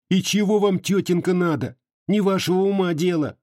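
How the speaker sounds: a touch of annoyed snapping; irritated retort. Acted. Aksinya snaps at aunt.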